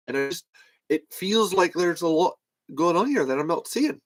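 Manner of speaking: lightly put-on Belfast accent, lilting upward; a hint of Belfast lilt; Colin impression. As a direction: imitate a Belfast man puzzling it out. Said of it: "Colin fucking was like".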